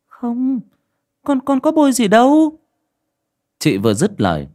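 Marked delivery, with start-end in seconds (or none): 0.0-2.6 much higher, stammering denial; frightened young wife protesting; flustered denial. A narrator's reading. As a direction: deny it in a panic, tripping on words. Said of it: "liên tục xô xô".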